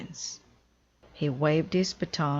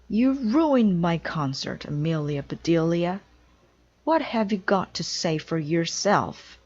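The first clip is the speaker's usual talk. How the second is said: mad; 2 semitones higher, 4 dB louder than usual. Acted. Conductor scolding Amelia after the ruined concert, angry. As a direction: scold her for ruining the concert. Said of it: "The conductor was very mad".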